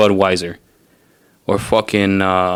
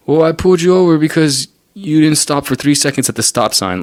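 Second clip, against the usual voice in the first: higher, smug mock officer voice; mock cop; 6 semitones higher than usual. Mocking cops who pull people over for stop signs, high mock voice. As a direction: play the petty cop with his excuse. Mocking the cop's typical excuse.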